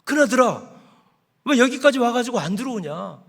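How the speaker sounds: 높은 목소리로 살짝 연기한 달래는 아버지; 아들을 안으로 들이려 가볍게 달래듯. Acted. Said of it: "아버지가 와가지고 큰아들을 설득합니다". (잔치에 들어오라고 큰아들을 달래는 아버지, 살짝 높은 달램)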